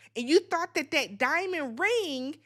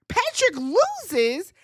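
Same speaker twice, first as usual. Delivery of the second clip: stunned slower; 5 semitones higher, 4 dB louder, much slower than usual. Real, not acted. Repeats the result.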